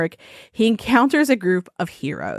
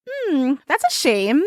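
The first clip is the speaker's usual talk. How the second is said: sea maiden; 4 semitones higher than usual. Retold or imitated.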